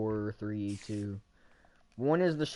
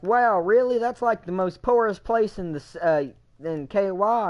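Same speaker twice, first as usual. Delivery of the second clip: higher, louder mock shock; shocked friend; 7 semitones higher, 5 dB louder than usual. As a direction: play it amazed and loud.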